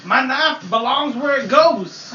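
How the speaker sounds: laughing. Pretend. Mock libertarian slogan, laughing.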